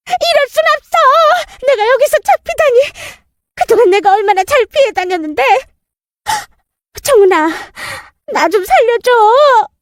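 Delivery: high, wailing pleas for help; desperate pleading. Acted. Arrested stepmother begs her stepdaughter and in-law, desperate. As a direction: beg as if being dragged away.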